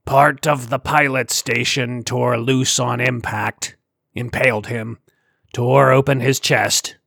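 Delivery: slow, heavy alien creature. Acted. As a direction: let each word drag like a big alien. Sar's alien voice.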